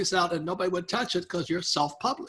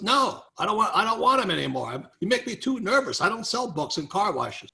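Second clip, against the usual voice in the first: higher-pitched, fussy mock protest; retold exasperated refusal; 5 semitones higher than usual. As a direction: act out a friend refusing to take any more. Retold exasperated refusal by car wash owner.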